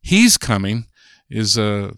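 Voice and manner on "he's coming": "He's coming" with stress rising on "He's", not pleased; displeased intonation. Shown as a demonstration. Linguist showing intonation of reluctance, unhappy stress on he's. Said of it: "I may not be so happy that he's coming".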